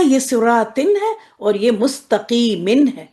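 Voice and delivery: سراتن with a clear ن, said slowly; separate words. Shown as a demonstration. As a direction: pronounce سراتن and مستقیمن each with a full ن. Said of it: "لفظ الگ الگ کیا ہے". (الگ الگ لفظ، واضح نون کے ساتھ)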